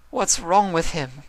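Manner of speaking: high, slow, begging Rarity; pleading. Acted. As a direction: plead for an answer about Spike. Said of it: "Rarity asked pleadingly".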